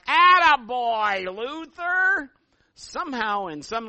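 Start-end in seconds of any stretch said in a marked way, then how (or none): 0.1-2.3 high, loud, drawn-out cheer; imitated heckler's holler. Preacher imitating the guy in the movie, long high holler. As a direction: holler it slowly like one lone fan in a crowd. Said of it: "that one guy going".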